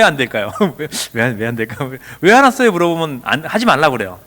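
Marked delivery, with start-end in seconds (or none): 2.2-2.7 loud, high demanding question; confrontational questioning. Acted. Parent challenging an angry child, confrontational.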